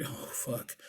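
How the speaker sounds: very quiet, unvoiced mutter; hushed retold groan of dismay. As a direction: mutter it under your breath in dismay. Teller's dismayed aside in the story.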